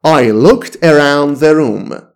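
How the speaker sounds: very slow, each word laid out for learners; slow classroom demo; slow model sentence. Shown as a demonstration. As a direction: say it slowly so students can copy. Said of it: "teacher repeats model sentence".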